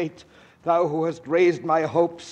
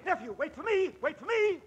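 plaintive call; 13 semitones higher, 8 dB quieter, faster than usual. Acted. Ghost left behind, calling.

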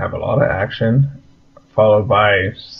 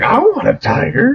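mock childlike want; 14 semitones higher than usual. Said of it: "He's like".

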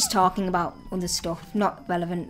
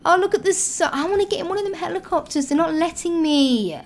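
whiny complaint; 6 semitones higher than usual. Pretend. Shut out of the helicopters.

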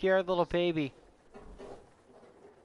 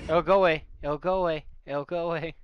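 calming himself after a scare; fading reassurance; 4 dB louder than usual. Acted. Repeated self-reassurance, fading.

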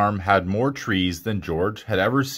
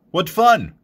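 high, louder burst of glee; thrilled little outburst; delighted exclamation; 7 semitones higher, 5 dB louder than usual. A narrator's reading. Monkey's delight in the story.

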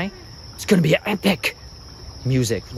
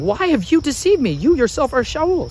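a touch of an outcry; woman crying out; 9 semitones higher than usual. Acted. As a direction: call it out as the shocked medium. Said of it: "she cried out with a loud voice".

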